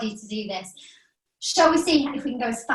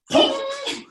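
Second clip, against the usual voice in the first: ping sound; 14 semitones higher than usual. Pretend. Stretchy pajamas pinging.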